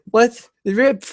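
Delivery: high-pitched mock shock; astonished. Woman learns stranger is her father.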